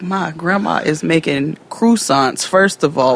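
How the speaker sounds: high, laughing, disbelieving; laughing disbelief. Retold or imitated. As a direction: laugh through it in shock. Telling mother, laughing.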